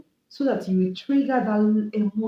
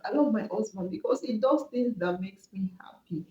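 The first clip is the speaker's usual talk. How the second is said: soft whisper; 8 dB quieter than usual. Retold or imitated. Spouse voiced praising partner.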